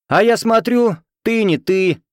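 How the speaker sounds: loud, high, delighted shout; joyful. Acted. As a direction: burst out with glee. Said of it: "Радостно скалясь".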